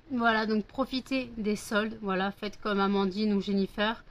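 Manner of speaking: talking through hiccups. Real, not acted. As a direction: hold back the hiccups. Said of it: "j'ai le hoquet".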